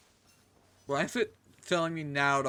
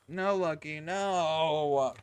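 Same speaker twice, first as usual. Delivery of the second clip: loud firm no; scolding shout; 2 semitones higher, 6 dB louder, much slower than usual. Real, not acted. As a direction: shout no at the pet. Scolding pet grabbing microphone.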